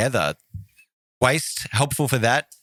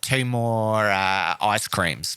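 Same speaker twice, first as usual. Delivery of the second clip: mock Italian order; 2 semitones higher, slower than usual. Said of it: "They'd be like".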